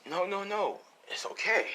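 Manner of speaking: a high, sugary false reassurance; a slave seller faking kindness to a lost boy, sickly sweet; fake-kind stranger. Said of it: "he pretends to be".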